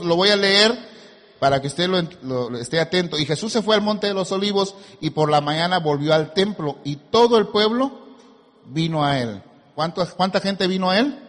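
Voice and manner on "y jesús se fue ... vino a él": measured, emphatic pulpit reading; scripture reading. Acted. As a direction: read it out for a congregation to follow. Reads scripture to congregation.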